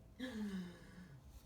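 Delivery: breathy, falling sigh; long sigh. Acted. Storyteller reacting to Turkey's pig plan, long sigh. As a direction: sigh it out for effect.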